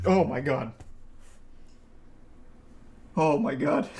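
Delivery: real startled gasp of words; jolted by a sudden bang under the chair. Real, not acted. Startled by the dog kicking his chair, real shock. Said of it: "She just scared me".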